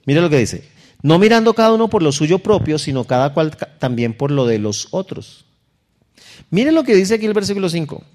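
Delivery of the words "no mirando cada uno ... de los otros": scripture read aloud, raised and slow; lectura bíblica. Acted. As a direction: read the verse like a preacher. Rereading the verse. (lectura solemne del versículo)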